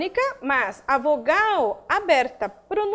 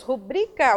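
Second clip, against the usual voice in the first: "rubrica" with the weight on the middle syllable, bri; stress on BRI; 3 semitones lower, slower than usual. Shown as a demonstration. Teacher demonstrating the tonic syllable to students, "rubrica" stressed on bri. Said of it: "Nós temos a sílaba tônica bri".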